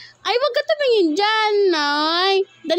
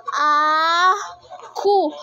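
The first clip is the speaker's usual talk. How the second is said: put-on cooing for baby to copy. Shown as a demonstration. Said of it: "Gayahin mo".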